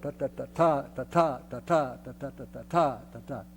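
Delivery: short eighth-note TAs against weightier quarter-note TAs; note-value demo. Shown as a demonstration. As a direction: chant TA with the longer notes leaned on. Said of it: "make the difference here in between the".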